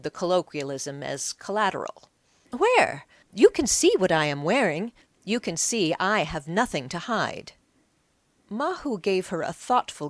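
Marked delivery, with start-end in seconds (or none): 2.5-7.5 indignant woman. Acted. Woman protests her innocence.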